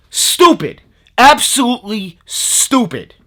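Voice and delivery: fed up with the scam seller; real anger. Real, not acted. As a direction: spit out ABSOLUTELY stupid. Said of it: "I'm mad".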